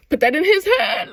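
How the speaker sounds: loud, high, pushed shout; hammed-up loud push; emphatic shout. Shown as a demonstration. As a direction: yell it like a command.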